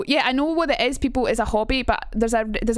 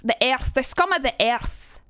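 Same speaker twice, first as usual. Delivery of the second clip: gruff Edinburgh take on "earth"; pronounced Edinburgh accent. Shown as a demonstration. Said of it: "it's a lot more pronounced, the Edinburgh accent".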